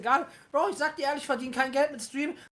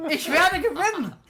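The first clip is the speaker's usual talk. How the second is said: defiant slow shout; 5 semitones higher, 5 dB louder than usual. Real, not acted. Laughing, defiant boast.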